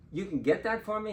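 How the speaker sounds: high, incredulous retold question; amazed question. Reacting to offer of a ticket.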